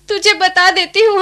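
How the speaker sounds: tearful plea. Acted. Grandmother pleading with grandson.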